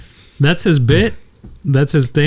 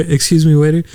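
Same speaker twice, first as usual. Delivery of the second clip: confused diner; 3 semitones higher than usual. Retold or imitated. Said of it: "and then you're like".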